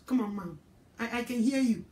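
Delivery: put-on low, soft, grudging teen voice; sulky teen brushing off mom; mock teen whine. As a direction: mutter it like a sulky kid. Voiced child dismissing mother.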